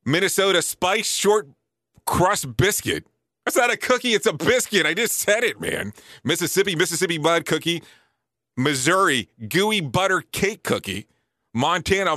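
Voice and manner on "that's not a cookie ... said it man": indignant objection. Real, not acted. Arguing with the cookie list.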